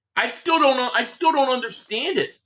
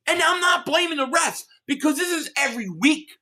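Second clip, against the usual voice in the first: angry rant; 6 semitones higher than usual. Real, not acted. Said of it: "Sorry, I'm getting pissed".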